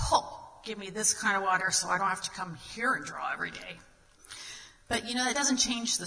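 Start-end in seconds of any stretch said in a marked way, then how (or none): 0.1-3.8 sarcastic. Retold or imitated. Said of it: "the woman at this point gets sarcastic".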